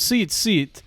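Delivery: lightly imitated Russian accent; mock Russian woman; thick Russian accent. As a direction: retell her order in a Russian accent. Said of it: "she has, like, a thick Russian accent".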